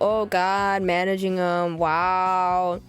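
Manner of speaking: slow, mock-impressed fake agreement; sarcastic. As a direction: pretend you know all about it. Students faking managing experience.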